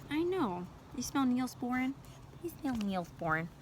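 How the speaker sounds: soft, cooing question to a dog. Real, not acted. Owner to a sniffing dog, pet baby talk. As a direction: coo gently at a curious pet.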